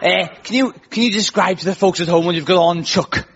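hammy attempt at a Scouse accent; Cilla Black. Dating show host asking a guest's outfit, Scouse accent. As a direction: have a go at broad Scouse. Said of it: "that's how you do a Scouse accent".

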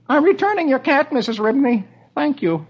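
high confident Dagwood; a smug husband at bedtime. Acted. Dagwood voiced.

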